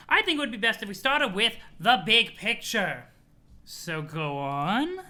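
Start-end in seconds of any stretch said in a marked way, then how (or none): 0.1-3.0 put-on sweet old grandma voice; chirpy granny, doting on her grandson; Nana voice. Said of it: "You love my Nana voice?".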